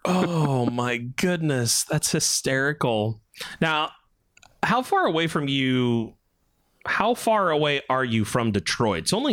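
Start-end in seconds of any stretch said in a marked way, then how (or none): 0.0-3.2 slow, drawn-out amusement; amused disbelief. Real, not acted. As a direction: savour how funny it is. Reacting to a funny story.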